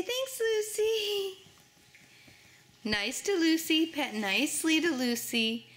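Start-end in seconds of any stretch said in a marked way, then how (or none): 0.0-1.4 slow modelled words. Shown as a demonstration.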